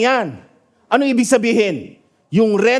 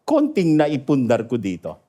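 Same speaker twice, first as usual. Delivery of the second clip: much lower, softer despairing prayer; quiet prayer; 8 semitones lower, 3 dB quieter than usual. Retold or imitated. Pastor praying as the fire spreads, quiet despair. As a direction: pray it low and defeated. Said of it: "And I started praying".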